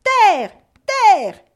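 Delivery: high, loud shout from aloft; two ringing, falling shouts; lookout's cry. A narrator's reading. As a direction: call it out to the whole ship. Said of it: "la vigie s'écrie".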